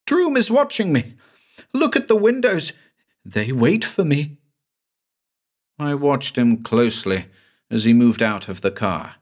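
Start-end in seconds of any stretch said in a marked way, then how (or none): 0.1-4.4 terrified. Acted. Hallucinating patient.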